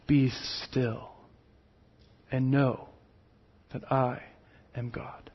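low, soft and tender; hushed reassuring word from God; gentle. Acted. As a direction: say it like a quiet comfort. God's gentle word to the nations.

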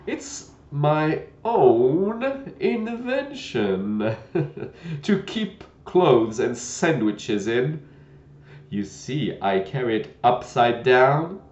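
put-on slow, friendly old knight; proudly explain, slow and kind. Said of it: "in a friendly tone".

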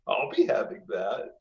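lightly voiced greedy goblin; a hint of a sneaky goblin. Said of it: "in my goblin voice".

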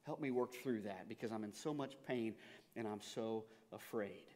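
a hushed, honest confession of doubt; quiet vulnerable plea. Acted. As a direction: plead softly, in pain and fear. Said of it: "the authenticity in the Father's voice".

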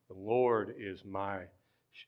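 usual speaking voice

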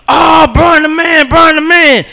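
high, slow hyped cheering; excited cheer. Retold or imitated. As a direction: cheer the dunk like your boys. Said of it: "everybody lose their mind".

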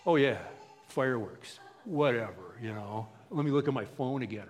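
mock blasé indifference; imitating someone playing it cool; too cool to care. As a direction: act mildly unimpressed. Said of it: "he hasn't learned to be cool".

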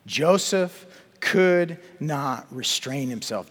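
each word drawn out slowly and weighed; slow emphatic reading. Shown as a demonstration. Preacher savouring the verse for the congregation, slowly. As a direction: linger on Joseph could not restrain himself. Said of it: "Look at chapter forty-five".

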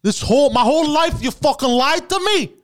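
put-on a son confronting Ma in a New York Bronx accent. Tony Montana Junior yelling at his mother, in a hammed-up Bronx accent. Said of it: "he kinda talks like he's from the Bronx".

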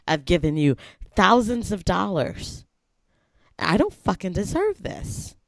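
Karen voice. Pretend. Typing a complaint to Nike about a late pair, in a Karen voice. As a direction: play an entitled customer, voice climbing to the final outburst. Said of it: "put on your best Karen voice".

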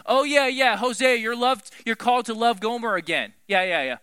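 loud, high, dismissive yeah-yeahs; a jaded listener shrugging off the story; callous brush-off. Pretend. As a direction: wave it off like old news. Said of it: "I can get really callous to it".

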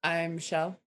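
lightly voiced First Lady impression; understated impression of a First Lady; Michelle Obama. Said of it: "I can be Michelle".

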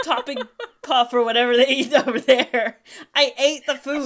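hammed-up, badly faked English accent; mock English accent. Bragging about food eaten in England, mock English accent. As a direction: keep up a silly English accent. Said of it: "Is that what you think English people sound like?".

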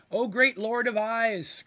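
loud, slow grand call; slow, loud ceremonial greeting. Acted. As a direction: hail the monster from afar. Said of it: "cried out Dandy".

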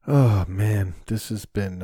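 ordinary talk, nothing marked

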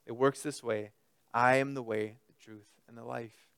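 put-on calm a frightened child down; gentle, like to a child. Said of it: "treating Thomas like a child".

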